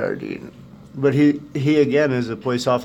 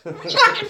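high laugh. Real, not acted. Laughing at super chat.

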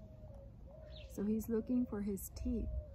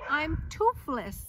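hammed-up despair; 6 semitones higher, 8 dB louder, slower than usual. George despairs.

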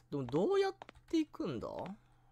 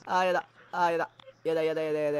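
louder scared whine, over and over; 6 dB louder, faster than usual. Real, not acted. Streamer spooked by the ghost, scared whine. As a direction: whimper no repeatedly. Frightened repeating.

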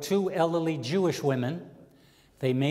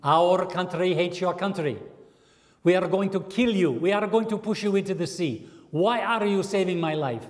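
Egyptian character; 2 semitones higher than usual. Acted. Egyptian voiced in joke, angry.

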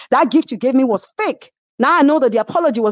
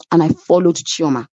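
ordinary delivery

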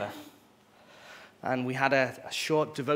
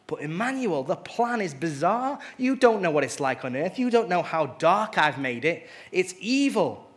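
arguing Satan; 3 semitones higher, 4 dB louder than usual. Acted. Satan argues against the plan.

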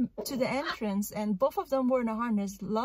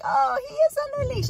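much higher, louder dismissive put-on voice; mocking dog owners; 9 dB louder, faster than usual. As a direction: mimic the careless owners shrugging it off. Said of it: "And they were like".

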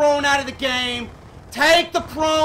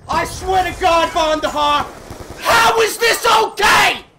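higher, louder furious rant; raging gamer; 4 semitones higher, 4 dB louder than usual. Real, not acted. Raging at the game.

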